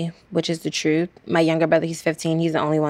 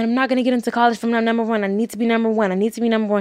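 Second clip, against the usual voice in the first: frantic insistence; 5 semitones higher, much faster than usual. Retold or imitated. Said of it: "so full of emotion".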